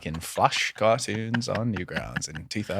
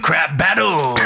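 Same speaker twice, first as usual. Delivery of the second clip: shouting; 7 semitones higher, 4 dB louder, much slower than usual. Pretend. Shouted bit as a joke.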